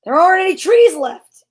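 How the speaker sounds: put-on child's yell. A narrator's reading. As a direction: call it out as an upset child. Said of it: "yelled one of the children".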